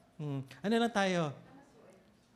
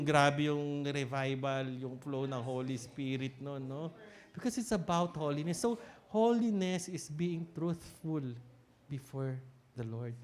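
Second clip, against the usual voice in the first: hushed awe; 4 semitones lower, 10 dB quieter than usual. Acted. Awed reflection on holiness.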